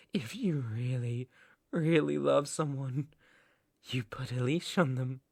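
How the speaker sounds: soft, controlled possessiveness; quiet menace. Acted. Captor explains his idea of love, quiet menace. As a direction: say it softly, with threat underneath.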